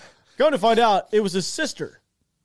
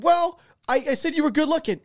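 higher-pitched, hesitant mock admission; sheepish confession; 9 semitones higher, 3 dB louder than usual. Private admitting his remark to the LT's sister, sheepish. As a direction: stumble into a reluctant retold confession.

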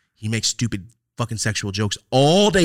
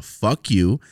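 angry retort; 5 dB louder than usual. Retold or imitated. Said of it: "But now I'm mad".

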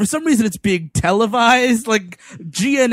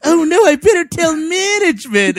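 high-pitched comic panic; hammed-up worried squeal; mock alarm; 9 semitones higher, 4 dB louder than usual. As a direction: yelp it as a cowardly bystander, half laughing. Samson flees in mock alarm.

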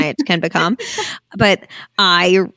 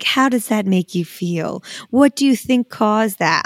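mock therapist; slower than usual. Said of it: "one was so like".

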